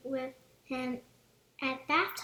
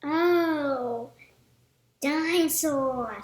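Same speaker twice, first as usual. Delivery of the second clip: slow, loud little piglet voice; a small pig amazed at the toy; George piglet voice; 8 dB louder, much slower than usual. A narrator's reading. George gazing at the toy dinosaur, slow awed piglet voice.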